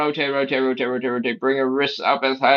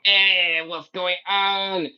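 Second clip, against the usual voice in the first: higher, slow puzzled voice; voicing the confused body; 6 semitones higher, much slower than usual. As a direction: play the body asking, confused. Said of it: "your whole body is going".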